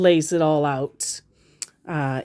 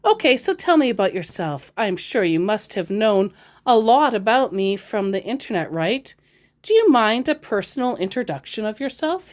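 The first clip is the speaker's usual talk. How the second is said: mock scammer voice; 4 semitones higher than usual. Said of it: "he asks".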